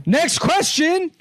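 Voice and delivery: slow, high announcer voice; drawn-out moderator call; debate moderator. Pretend.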